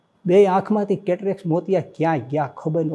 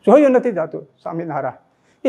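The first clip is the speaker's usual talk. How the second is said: anguished plea; 3 dB louder than usual. Retold or imitated. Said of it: "એ સ્વામિનારાયણ બોલ્યા".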